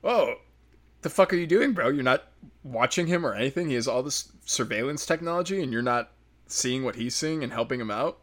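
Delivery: half-joking disbelief at the butler; incredulous outburst. Retold or imitated. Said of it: "And it's like".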